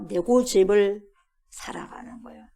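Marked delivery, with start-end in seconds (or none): 1.5-2.4 a sudden whispered aside. Real, not acted. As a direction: drop to a hushed breath. Preacher drops to a whisper. (속삭이듯 조용히)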